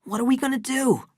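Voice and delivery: high, anxious question. Acted. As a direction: ask it with worry in the voice. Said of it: "Charles asked anxiously".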